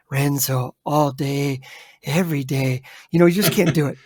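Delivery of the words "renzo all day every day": slow, lower delivery; drawn-out character talk. Shown as a demonstration. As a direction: drag each word out lower. Acts out talking slowly like Renzo.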